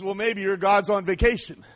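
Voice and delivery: lightly mocking, with amusement. Elijah mocks the prophets of Baal over their god, mocking. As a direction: tease them as you suggest it. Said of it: "Elijah starts mocking them".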